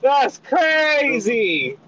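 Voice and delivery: high, drawn-out laughing disbelief. Real, not acted. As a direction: stretch it out in amused shock. Reacting with laughter.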